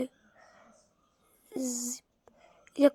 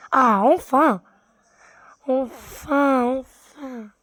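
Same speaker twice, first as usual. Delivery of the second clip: relieved; 4 dB louder, slower than usual. Real, not acted. Relief after long fight.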